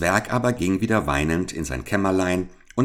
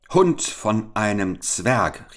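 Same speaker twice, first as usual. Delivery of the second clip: slow, furious call, a touch higher; angry shout; 4 semitones higher, slower than usual. Acted. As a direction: bite out the insult slowly. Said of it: "rief er".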